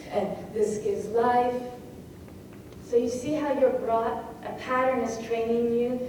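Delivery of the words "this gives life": slow "this gives life", landing on LIFE; emphasis on LIFE. Shown as a demonstration. Teacher showing where the pattern leads, LIFE emphasised. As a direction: give the final word "life" more weight. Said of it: "life then takes more emphasis".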